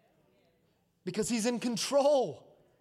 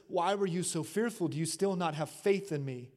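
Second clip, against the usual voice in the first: gentle question; 4 semitones lower, 5 dB quieter than usual. Acted. Jesus's question retold softly.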